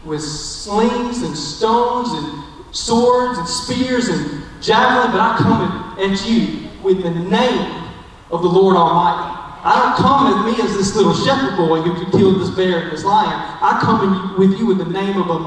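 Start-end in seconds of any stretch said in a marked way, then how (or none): 0.0-11.1 slow defiant boast with a laugh breaking through; David's bold declaration. Retold or imitated. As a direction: spell out the weapons slowly, then land on the Lord. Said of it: "He says".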